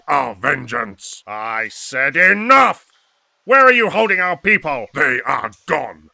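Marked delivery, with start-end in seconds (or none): 1.3-2.9 slow, loud, each word pressed; angry command. Acted. Commander repeating his order, slow and loud. 3.4-4.9 fast, loud and higher; furious demand. Acted. Rebel leader demanding where the captives are, fast and loud.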